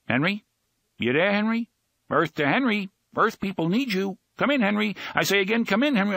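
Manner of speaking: high, loud radio-style call to a dozing man. Acted. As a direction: hail him like mission control, loud and high. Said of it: "Henry said".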